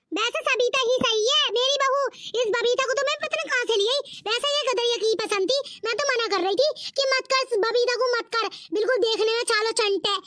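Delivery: a lightly voiced nagging old saas cursing her bahu; scolding mother-in-law. Mother-in-law complains about bahu. (बहू को कोसती सास, धीमी नीची आवाज़)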